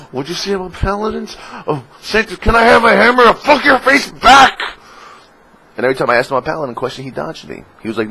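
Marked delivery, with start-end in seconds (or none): 0.1-4.6 high, loud hammed-up challenge; mock taunt. Player hamming up a threat at the class designer, loud mock taunt. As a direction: taunt him with a cheeky threat.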